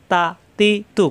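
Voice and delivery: তা, তি, তু as short syllables; no lingering. Shown as a demonstration. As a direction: say তা, তি, তু without drawing out the vowels. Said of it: "কোনো করে দেরি করা যাবে না". (দেরি না করে তা, তি, তু)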